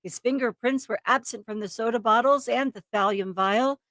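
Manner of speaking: dramatic true-crime narration; story narration. A narrator's reading. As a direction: read it as a suspenseful crime story. Reads the case story aloud.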